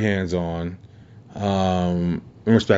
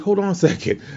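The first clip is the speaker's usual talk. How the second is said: "Hold on a second" said much higher in a mock female voice; imitating Toni; 11 semitones higher than usual. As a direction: quote her lightly and brightly, pitched up. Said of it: "She's like".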